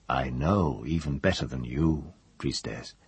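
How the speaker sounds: a captive's low, steady reply; voice deepening. Acted. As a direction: drop the voice down and make it weigh. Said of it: "his voice deepening".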